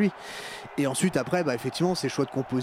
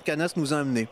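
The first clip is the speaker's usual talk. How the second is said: talking while munching nachos; mouth full. Real, not acted. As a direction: speak around a crunchy mouthful. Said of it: "parler la bouche pleine".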